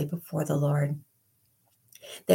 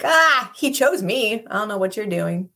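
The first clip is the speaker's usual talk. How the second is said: bold joy; 4 semitones higher, 6 dB louder than usual. Retold or imitated. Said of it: "we'll be like".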